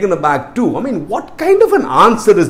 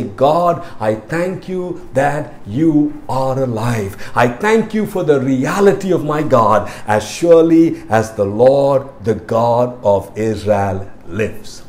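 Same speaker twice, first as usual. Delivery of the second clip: prayer; 4 semitones lower, slower than usual. Shown as a demonstration. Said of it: "let's stop and say".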